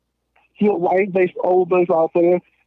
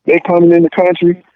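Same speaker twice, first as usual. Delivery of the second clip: heated rant; 3 semitones higher, 6 dB louder than usual. Real, not acted. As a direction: push it out loud, getting worked up. Heated rant about boycotting.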